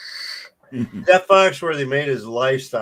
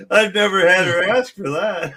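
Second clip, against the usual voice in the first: laughing; 3 semitones higher than usual. Retold or imitated. Quotes Artie while laughing.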